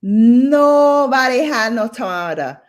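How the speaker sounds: exasperated holler; loud exclamation. Real, not acted. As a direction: stretch it out in loud disbelief. Exclaims about family's lack.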